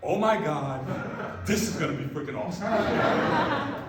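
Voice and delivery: gleeful, with a laugh; giddy rush of joy; laughing excitement; excited laughing thought. Retold or imitated. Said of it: "The other one is like".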